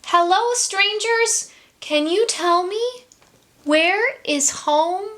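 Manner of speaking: high called greeting across a distance; calling out. Acted. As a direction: call out to the strangers. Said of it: "Pip called".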